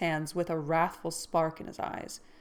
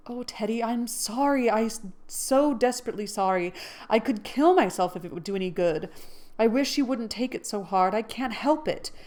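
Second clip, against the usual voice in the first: remorseful cry; 3 semitones higher, 3 dB louder than usual. Acted. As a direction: beg him to stop hurting. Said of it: "cried Joe, inelegantly but remorsefully".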